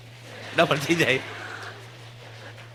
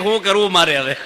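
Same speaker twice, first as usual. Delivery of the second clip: laughing mock worry; 3 semitones higher, 4 dB louder than usual. Lender now worried, laughing.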